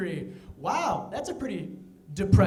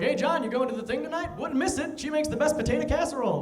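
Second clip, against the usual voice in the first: chipper neighbor; 6 semitones higher than usual. Retold or imitated. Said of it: "go like".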